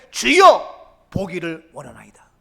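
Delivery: confident, loud call of 주여 falling to 보기를; bold cry. Acted. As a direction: cry out boldly to the Lord, then drop back. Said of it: "자신 있게, 용기 있게".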